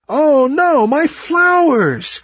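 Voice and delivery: high alarmed cry, slow on the flowers; cried out. A narrator's reading. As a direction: panic for the falling petals. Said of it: "cried the copperpod tree".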